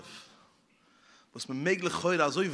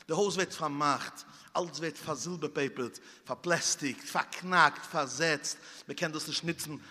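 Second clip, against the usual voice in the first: quiet lament; 3 semitones lower, 5 dB quieter than usual. Acted. Sad lament over sealed house.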